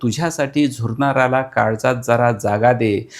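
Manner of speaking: measured poetic recital; reciting verse to an interviewer; poem recital. Acted.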